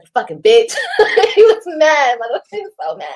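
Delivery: breaking into laughter; tickled, laughing through the words; amused retelling. Real, not acted. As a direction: laugh as you retell his insult. Laughs retelling his insult.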